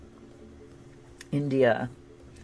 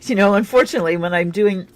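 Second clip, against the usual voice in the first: talking through a mouthful of pie; words muffled round a bite; mouth full; 4 semitones higher, 5 dB louder, faster than usual. Real, not acted. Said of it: "I've got pie here in my mouth now".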